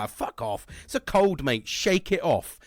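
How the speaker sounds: mock hard-man telling off a cold; tough-guy scorn. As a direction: scold yourself to toughen up. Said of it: "That's what I normally say".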